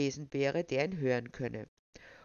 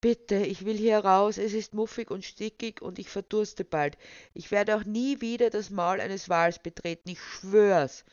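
higher-pitched, urgent pleading; begging; 5 semitones higher, 5 dB louder than usual. A narrator's reading. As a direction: beg desperately to be let out. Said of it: "Jona sich aufs Betteln verlegte".

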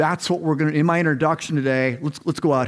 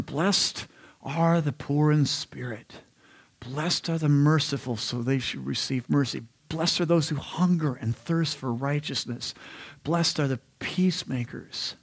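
softer, measured recital of verses; scripture recitation; 6 dB quieter than usual. Acted. Preacher quoting the Beatitudes to the congregation, hushed recitation. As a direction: recite the blessings quietly, phrase by phrase.

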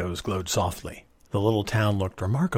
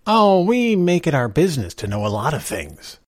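lightly voiced easygoing stranger, pitched up; breezy, unbothered reply; easy, relaxed; 6 semitones higher, 5 dB louder than usual. A narrator's reading. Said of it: "the stranger said easily".

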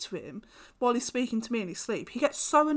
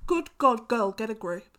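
scolding mum; 2 semitones lower, 8 dB louder than usual. Acted. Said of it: "Sorry, Mum".

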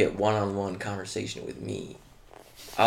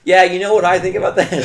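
much higher and louder put-on voice; loud mock accent voice; 10 semitones higher, 15 dB louder than usual. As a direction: bellow it like a mock tough guy. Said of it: "getting loud".

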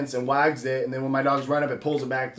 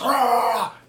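dog freak-out yelp; 9 semitones higher, 4 dB louder than usual. Retold or imitated. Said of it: "freaking out".

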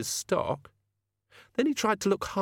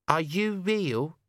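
bobble hat; 7 semitones higher, much slower than usual. Acted. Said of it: "said the bobble hat".

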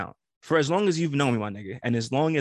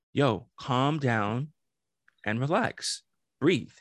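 calming; much slower than usual. Retold or imitated. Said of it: "I'm just like".

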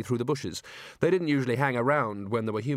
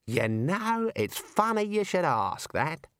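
higher, slower, sly kangaroo; bouncy kangaroo voice; 5 semitones higher, slower than usual. Acted. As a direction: drawl it out knowingly. Kangaroo speaks.

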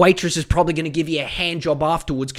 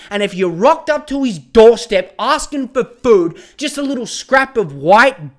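louder, building outrage; heated rant; 3 semitones higher, 4 dB louder than usual. Real, not acted. Ranting at fans who pity a millionaire, loud and heated. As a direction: hammer it home, getting more worked up. Ranting about Djokovic ignoring the poor.

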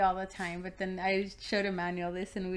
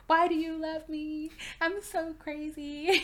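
self-doubt; 7 semitones higher, slower than usual. Retold or imitated. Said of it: "I was just like".

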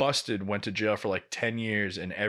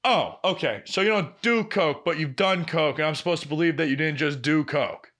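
higher, a mock sceptical boss piecing it together; boss needling; 4 semitones higher than usual. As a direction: tease him in a raised imitating voice. She goes.

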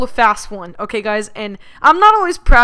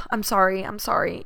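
soft, teary mock apology, a little quieter; fake crying apology; 3 semitones lower, 8 dB quieter than usual. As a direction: put on a fake sob to push him away. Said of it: "obviously I started crying".

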